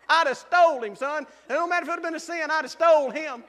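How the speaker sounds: loud laughing boast; almost shouting with glee; excited shout. Real, not acted. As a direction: crow it out loud, thrilled.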